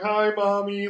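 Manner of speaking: mock little-girl voice; child greeting mom. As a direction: chirp it up high like a kid calling to mom. Retold child greeting her mom.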